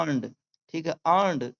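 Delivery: अर्न्ड and earned both with no R; silent R. Shown as a demonstration. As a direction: say earned as "uhnd", vowel held. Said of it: "इसे अर्न्ड बोला जाता है". (earned में र बिना बोले, "अन्ड")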